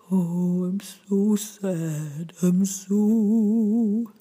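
slow, drawn-out sobbing tone; hooty, sustained sob. Shown as a demonstration. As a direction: sob it gently in a head-voice tone. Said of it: "The sob".

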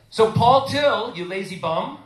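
mock scolding, slow and loud; a hint of a stern teacher telling off. Scolding voice of guilt-tripping teacher.

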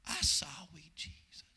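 hushed shy whisper; child's whisper. Retold or imitated. Shy three-year-old praying.

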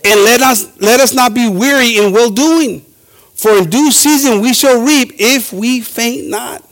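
slow, measured pulpit reading; lightly proclaimed Bible verse; scripture reading. Acted. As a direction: read the verse out deliberately to a congregation. Reads scripture aloud.

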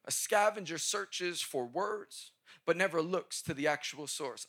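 slow, spaced dictation pace; each word laid out for note-taking. Shown as a demonstration. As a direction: read it slowly so they can write it down. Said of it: "please write this down".

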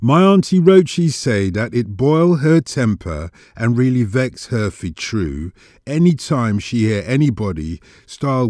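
lightly voiced Jamaican patois storyteller; Miss Lou. Poet retells auntie's vexation over dialect being called corruption, light Jamaican patois. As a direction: recite with a hint of indignant Jamaican dialect. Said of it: "Hear how she tells her story".

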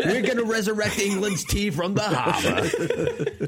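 laughing mock Boston voice; Boston accent. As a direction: declare it like a proud Bostonian. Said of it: "it's just as good as mine".

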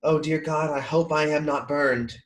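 lightly voiced fretful whine; a hint of a worried man fussing over burns; imitating Chilton's whimper. Mimicking Chilton to a friend, mild fretful whine. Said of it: "What a weird way to say that".

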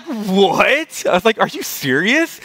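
high-pitched, acted-out astonishment; retold disbelief. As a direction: act out being taken aback. Acting out his disbelief at friend.

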